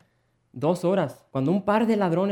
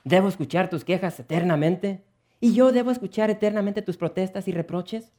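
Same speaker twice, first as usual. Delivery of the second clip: exasperated husband; 4 semitones higher, 5 dB louder than usual. Acted. Husband angry quarrel.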